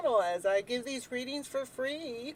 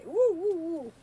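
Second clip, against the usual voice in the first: excited; 6 semitones higher, 6 dB louder, slower than usual. Real, not acted. Saging cheer.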